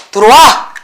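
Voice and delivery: sudden mock call-back. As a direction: call sharply to a daydreaming student. Calling a drifting student back.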